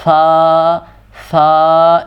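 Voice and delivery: ث said soft, tongue between the teeth, no whistle; سا with a gentle breath past the teeth; smooth soft sa. Shown as a demonstration. Teacher demonstrating سا to students, soft and smooth. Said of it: "اس کو بالکل smooth کر کے اور simple کر کے".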